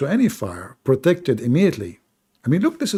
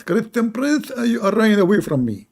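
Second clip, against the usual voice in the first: mock taunting caller; 8 semitones higher than usual. Mocking caller taunting him.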